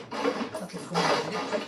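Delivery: slow whisper; slow secret whisper; whispered aside. Acted. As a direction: breathe it out slowly and secretly.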